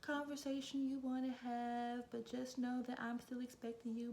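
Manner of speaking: manager imitated in a high voice; Moana. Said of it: "She was like".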